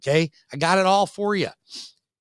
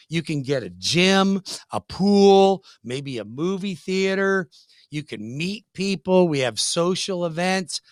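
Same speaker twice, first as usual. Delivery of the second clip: mock leasing agent pitch; 3 semitones higher, slower than usual. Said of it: "when you say it fast".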